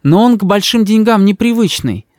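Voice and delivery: высокий, ласковый голос матери; мама заступается за сына. A narrator's reading. (голос мамы, выше)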